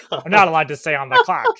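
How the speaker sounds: put-on 1940s film transatlantic accent; clipped old Hollywood transatlantic accent. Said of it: "You gotta say that with the transatlantic accent".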